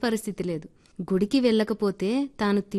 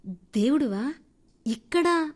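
startled question; 5 semitones higher, slower than usual. Acted. Startled man asks god.

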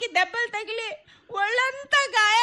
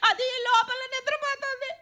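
tearful crying; 3 semitones higher than usual. Acted. Wife crying, leaving.

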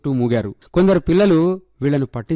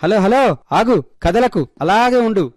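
higher, louder call to hold still; calling out to the animal; 7 semitones higher, 4 dB louder than usual. A narrator's reading. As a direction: coax the monkey to freeze for a photo. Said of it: "అంటూ ఆ ఆకారాన్ని తన cell ఫోన్లో బంధించాడు". (కోతిని ఆగమని గట్టిగా పిలవడం)

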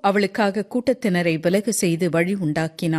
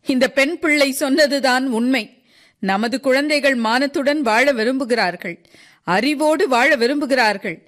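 high, emphatic plea as Sisov; Sisov, impassioned old worker; 6 semitones higher, 3 dB louder than usual. Acted. Sisov defends the young to the crowd, impassioned. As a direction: plead the children's cause, pitched high.

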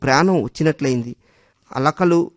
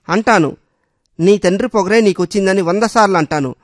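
higher, louder furious insistence; shaking with rage; 4 semitones higher, 3 dB louder than usual. Acted. Husband furiously repeats the insult about her father. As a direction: hammer it home in a rage. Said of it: "అంటూ ఊగిపోయాడు".

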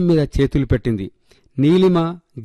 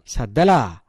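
put-on higher-pitched, slow puzzled child; innocent question; 5 semitones higher than usual. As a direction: ask like a child who has no idea. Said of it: "అమాయకంగా అడిగాడు జెన్నీ". (అమాయకంగా అడిగే పిల్లాడి గొంతు)

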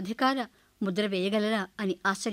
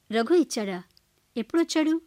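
surprised; 4 semitones higher, 4 dB louder than usual. Acted. Daughter surprised by news.

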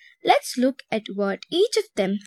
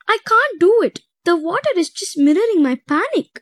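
high, louder tearful despair; sobbing; 7 semitones higher, 4 dB louder than usual. A narrator's reading. Mariana to her friends, sobbing in despair. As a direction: break down, near sobbing. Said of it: "she sobbed".

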